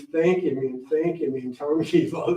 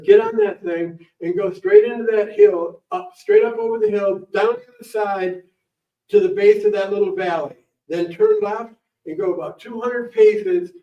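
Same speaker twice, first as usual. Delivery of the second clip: put-on higher, louder old man laying out the route; grandpa giving directions; 4 semitones higher, 4 dB louder than usual. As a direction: point the way like a proud grandpa.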